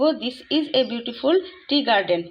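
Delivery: each word drawn out slowly; slow dictation. Shown as a demonstration. Teacher to students, reading the answer very slowly. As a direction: read it slowly so the class can copy. Reads corrected sentence.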